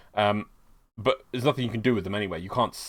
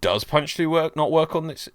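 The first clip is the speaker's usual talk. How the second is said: "Does punch through work" pitched up as a query; said as a question; 6 semitones higher than usual. Shown as a demonstration. Host showing listener what was really said, higher questioning tone. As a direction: raise "Does punch through" high, as if testing it. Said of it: "I'm saying, like, a question".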